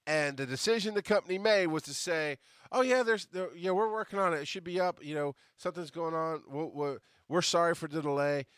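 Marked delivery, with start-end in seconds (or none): 2.7-8.5 mock corporate spin. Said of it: "And basically lying to them".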